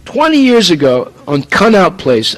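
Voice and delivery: ordinary delivery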